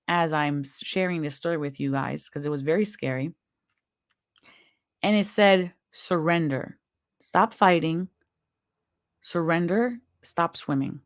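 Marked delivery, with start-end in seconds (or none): 0.1-3.3 quietly moved, reliving the fear; emotion welling up. Real, not acted. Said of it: "I actually feel emotion coming up". 5.9-11.0 hushed calm command to surrender. Retold or imitated. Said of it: "This voice was so, so, so very calm".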